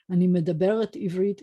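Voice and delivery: אני מדברת עברית with the feminine ending מדברת, medabeRET; female form. Shown as a demonstration. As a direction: say מדברת stressed on the last syllable, -ret. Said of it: "if you're a girl".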